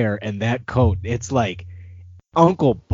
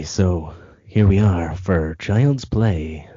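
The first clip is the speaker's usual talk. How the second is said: slow, silky radio host delivery; smooth DJ voice; 2 semitones lower, much slower than usual. Acted. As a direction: roll it out like a late-night DJ. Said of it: "the best D J voice that I can possibly provide".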